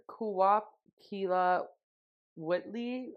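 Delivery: "Kuwap Kila Whitley" sounded out slowly and tentatively, unsure of each syllable; unsure Quileute. Real, not acted. Telling her co-host Jacob's words to Bella, carefully sounding out the Quileute phrase. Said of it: "I'm probably butchering that".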